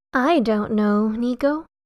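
slow, drawn-out, tentative drawl. Narrator reading Seth's reply to Nico, drawling the words. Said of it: "drawling out the words a bit".

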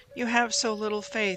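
ordinary delivery

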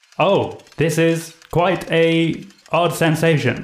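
mechanical, machine-like robot voice. A Warforged skull speaks from within after being shaken, in a robotic voice. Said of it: "you hear just a robotic voice from within go".

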